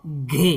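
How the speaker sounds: घे said as a short 'ghi'; short i sound. Shown as a demonstration. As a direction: keep the vowel in घे brief, as 'i'. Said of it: "इस तरह से छोटी ई का sound".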